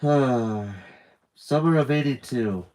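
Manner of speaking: slow, sighing nostalgia; wistful sigh. Acted. Jeremiah sighing over a lost memory, slow. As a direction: sigh it out, slowly remembering. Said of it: "Jeremiah sighed".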